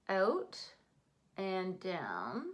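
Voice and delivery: Canadian "out" in "out and down"; Canadian accent. Real, not acted. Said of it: "you just heard my Canadian accent".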